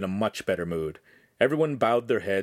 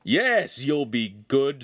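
laughing; 4 semitones higher, much slower than usual. Acted. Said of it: "the master laughed".

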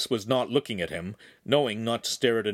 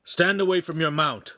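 commanding; 6 semitones higher, 3 dB louder than usual. A narrator's reading. Officer orders prisoner away from horse.

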